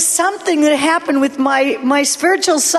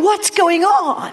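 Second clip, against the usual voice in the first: slow, slightly raised, puzzled question; bewildered question; 3 semitones higher, slower than usual. Retold or imitated. Preacher retelling his shock to the congregation, bewildered. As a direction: draw out a baffled question.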